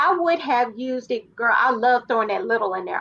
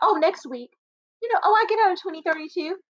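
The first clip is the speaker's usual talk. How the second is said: mock breezy, offhand, shrugging tone, pitched up; 6 semitones higher than usual. Retelling how an inmate announced her release date: imitating Elizabeth's no-big-deal tone. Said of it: "the way she said it was like, it was no big deal".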